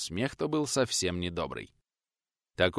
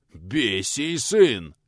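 huffing; 5 dB louder, much slower than usual. Acted. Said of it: "засопел в ответ тот".

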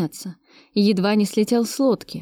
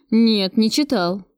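slow, dejected admission; slower than usual. Acted. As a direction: admit it glumly, slowly. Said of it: "признался бандит удручённо".

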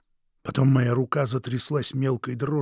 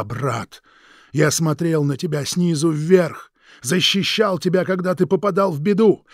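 higher and louder, slow and aching; bitter outburst; 8 semitones higher, 11 dB louder, slower than usual. Acted. The brother shouting his grievances at Atlas, anguished. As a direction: pour out years of resentment.

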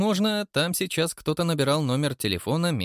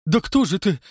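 terrified question; 8 semitones higher, 5 dB louder than usual. A narrator's reading. Terrified watchman asks.

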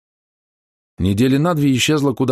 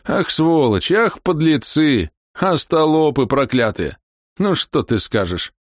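angry cursing; 7 semitones higher, slower than usual. Acted. Old man cursing officials.

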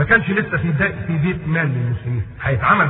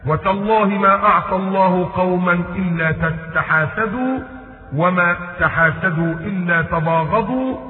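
slow solemn recital; 3 semitones higher, slower than usual. Retold or imitated. Umar's warning recited slowly.

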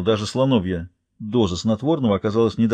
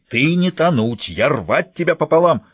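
roaring threat; 4 semitones higher, 3 dB louder, slower than usual. Acted. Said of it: "с рёвом".

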